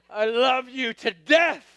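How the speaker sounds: slow, strained declaration rising at the end; hammed-up love through exasperation; mock adoring outburst. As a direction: draw it out, building to a half-shout. Exaggerated inner reply to wife.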